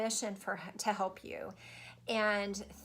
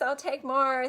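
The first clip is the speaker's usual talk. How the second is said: elated, eager; 4 semitones higher, 7 dB louder, slower than usual. Real, not acted. Joyful thanks to the universe.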